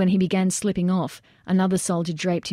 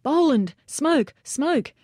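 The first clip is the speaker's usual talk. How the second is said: yelling orders; 8 semitones higher, much slower than usual. A narrator's reading. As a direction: call across the roof for smoke. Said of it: "Jager yelled".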